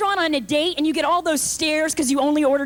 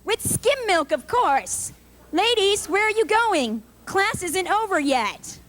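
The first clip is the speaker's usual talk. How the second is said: high, fussy calls; aerobics instructor; 5 semitones higher than usual. Retold or imitated. Instructor calling after ladies leaving for frappuccinos, high and fussy. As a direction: chase them down sweetly then scold.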